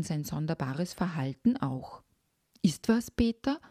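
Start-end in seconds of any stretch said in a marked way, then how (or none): 2.6-3.6 höher und besorgt fragend. A narrator's reading. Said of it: "fragte meine Mutter besorgt". (besorgte Mutter, höher fragend)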